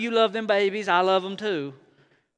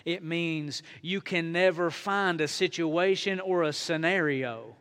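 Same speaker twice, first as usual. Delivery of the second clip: much softer, intimate sermon voice; hushed reflection; 4 semitones lower, 7 dB quieter than usual. Acted. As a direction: draw them in close and quiet.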